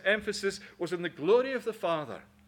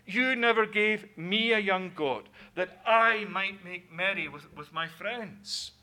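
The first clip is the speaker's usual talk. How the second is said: resentful complaint; 6 dB louder than usual. Shown as a demonstration. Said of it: "look how he answers his father".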